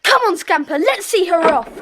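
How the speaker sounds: rally the dog to chase; boy urging his dog after the intruder, loudly; urging shout. Acted.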